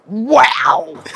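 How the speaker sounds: loud, high, drawn-out marvelling; amazed. Retold or imitated. Retelling herself discovering the grout brush, amazed. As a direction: gush in mock awe.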